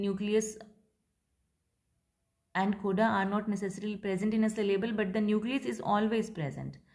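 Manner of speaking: slow, deliberate reading of the rule; slow dictation. Shown as a demonstration. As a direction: dictate it word by word. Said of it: "teacher dictates English line". (धीमी आवाज़ में लिखवाना)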